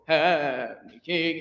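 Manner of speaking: slow "Heavenly King", heavenly as HEV-nee; teacher models "Heavenly King" slowly; heavenly in two syllables. Shown as a demonstration. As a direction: drag "Heavenly King" with heavenly squeezed short. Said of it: "it's almost like two syllables".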